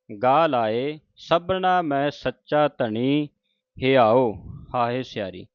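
measured, slow, devout reading of the verse; slow scripture recitation. Acted. Teacher reciting Farid's shalok to the sangat, slow and devout. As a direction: chant each phrase carefully with pauses.

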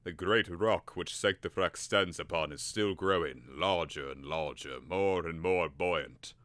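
slow, despairing fade; trailing off. Acted. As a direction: let it drift away sadly. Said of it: "His voice trailed away".

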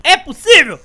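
loud disbelief. Real, not acted. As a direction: yell it in disbelief. Disbelief at game moment.

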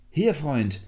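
high, loud answer; calling back. A narrator's reading. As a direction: shout back to whoever called. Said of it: "rief der Blutegel".

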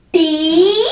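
"Pito" split, Pi then to; syllable by syllable. Shown as a demonstration. Teacher asking children what it says, syllable by syllable. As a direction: sound out "Pito" with a pause between Pi and to. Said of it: "Junto, ¿qué dice?".

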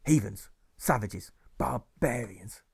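a furious schoolmaster, words dragged out slowly at the end; teacher's outburst. Acted. Teacher scolding his pupils, angry outburst. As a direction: rail at the class like a wronged master.

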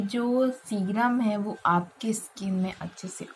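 muffled through fingers; speaking during face massage; hand over mouth. Real, not acted. Seen 0: Hands repeatedly cover her mouth while massaging serum into her face.

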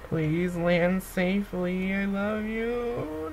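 slow, drawn-out plea; tender pleading. Real, not acted. Player begging her astronaut to land safely, tender pleading. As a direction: beg gently, stretching every word.

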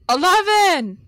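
Eleven stretched with a rise and fall; emphatic retry. Acted. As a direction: lean hard into Eleven. Louder retry for the failing lift.

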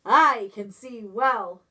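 booming eagle from a ledge. Acted. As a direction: call down like a proud eagle. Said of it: "said a voice from high overhead".

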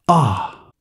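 short distant cry of pain; a sudden pained Ah; dying wife's faint cry of pain. A narrator's reading. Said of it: "With another cry of pain".

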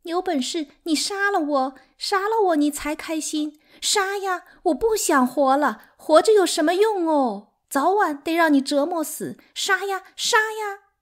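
high, loud, wailing challenge; hysterical sobbing. A narrator's reading. Sixth wife daring third wife to kill her, hysterically tearful. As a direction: wail it out in desperation, stretching the final cries. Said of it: "她已经哭得上气不接下气".

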